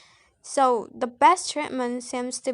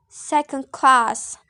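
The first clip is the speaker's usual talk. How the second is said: "second class" slow and louder, weight on CLASS; stress on second word; 6 dB louder, slower than usual. Shown as a demonstration. Student showing number-noun compound, "second class" stressed on CLASS. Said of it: "The primary stress is on the second word".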